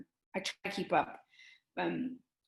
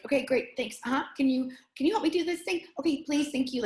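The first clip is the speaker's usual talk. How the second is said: lightly voiced impatient woman, higher and quick; impatient middle-aged woman; 4 semitones higher, faster than usual. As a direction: hurry the clerk along, a hint of impatience. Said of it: "this impatient middle-aged woman who's like".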